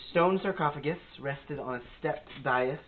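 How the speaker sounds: measured read-aloud room description; game master's scene setting. A narrator's reading. Game master describing the tomb to players, measured narration. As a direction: set the tomb scene, lingering on key details.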